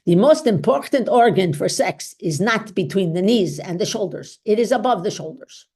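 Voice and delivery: light German accent, imitating Doctor Ruth; a hint of Doctor Ruth's German accent, fond. Doctor quotes her mentor in a light German accent. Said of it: "I will do it in her accent because her accent was so charming".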